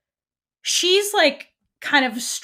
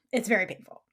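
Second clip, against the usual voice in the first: whisper; 2 semitones lower, 5 dB quieter than usual. Real, not acted. Sighing over a painful scene.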